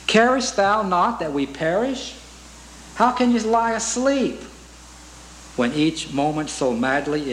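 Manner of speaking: reciting a hymn verse with feeling; hymn recitation. Acted. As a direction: read the hymn lines as a plea.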